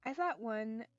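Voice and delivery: calm storytelling read; story narration. Acted. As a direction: read the novel aloud evenly. Reads visual novel aloud.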